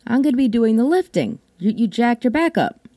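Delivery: high, incredulous retort; mock indignant. Retorting to her husband about the lifting, incredulous. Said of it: "I turned to him and go".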